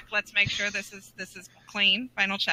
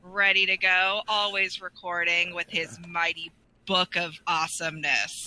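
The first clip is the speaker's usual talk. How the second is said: epic voice; 5 semitones lower, slower than usual. Acted. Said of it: "the epic voice".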